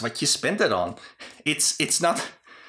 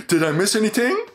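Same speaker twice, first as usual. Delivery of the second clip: mock cluelessness; 7 semitones higher, 4 dB louder than usual. Acting out Luca arriving late.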